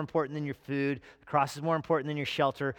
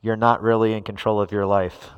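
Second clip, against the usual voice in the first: lower, louder narrator voice; hushed nature documentary; 6 semitones lower, 7 dB louder than usual. Acted. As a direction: intone it like a wildlife narrator. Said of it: "switch to my narrator voice".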